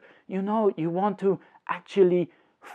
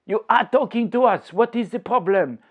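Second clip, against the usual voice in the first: put-on higher, protesting viewer's question in French accent; puzzled objection; 5 semitones higher than usual. Viewer questioning the teacher's grammar, puzzled protest. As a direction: object in mock puzzlement, pitched up.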